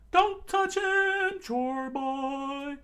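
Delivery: very high, loud, slow scream. Acted. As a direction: scream to stop him. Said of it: "that's Sanji screaming".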